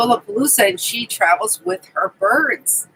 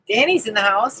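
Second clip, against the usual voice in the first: ordinary talk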